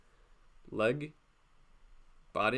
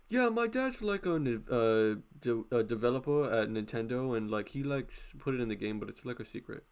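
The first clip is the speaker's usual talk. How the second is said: put-on bragging kid voice. Schoolkid lying to a doubter, smug bragging voice. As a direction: fake a dad at Nintendo. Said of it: "My dad worked at Nintendo".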